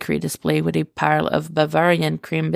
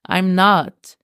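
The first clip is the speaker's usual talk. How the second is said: heated protest; 2 semitones higher, 4 dB louder than usual. Acted. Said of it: "as he protested heatedly".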